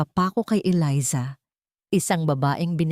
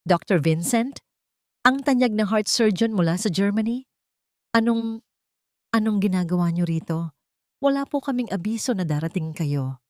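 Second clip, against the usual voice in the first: confused surprise; 4 semitones higher than usual. Acted. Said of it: "napalitan ng labis na pagkalito".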